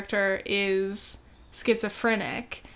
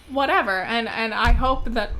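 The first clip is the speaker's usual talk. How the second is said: heated; 5 dB louder than usual. Real, not acted. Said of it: "sorry, I'm heated".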